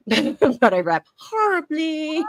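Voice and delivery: amused self-mocking laugh while speaking. Real, not acted. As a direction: giggle it out at yourself. Laughs at own rapping.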